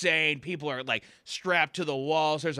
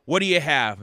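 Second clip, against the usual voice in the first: seething bartender; 2 semitones higher, 10 dB louder than usual. Acted. Seething bartender asks duck.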